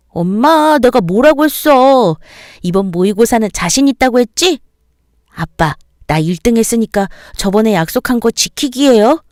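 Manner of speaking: put-on high, cheeky boy's voice claiming his reward; a kid saying told you so; boastful child. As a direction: son reminding his parents of the promise, cheeky and high. Son boasts, claims promise.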